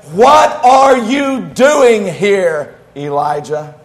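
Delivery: very slow, drawn-out question from God; God asking Elijah again, slow and searching. Acted. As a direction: let each word hang as God confronts him. God asks again, slowly.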